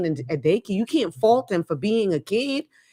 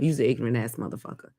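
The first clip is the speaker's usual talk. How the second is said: mock insult; 8 semitones lower, 4 dB quieter, faster than usual. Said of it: "calling him a bunch of ignorant motherfuckers".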